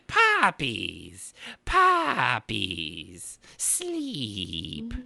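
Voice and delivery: eerie, whiny creature voice, laughing at first; Chamberlain from Dark Crystal. Pretend. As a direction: croon it like a creepy puppet villain. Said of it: "You sound like the Chamberlain out of, uh, Dark Crystal".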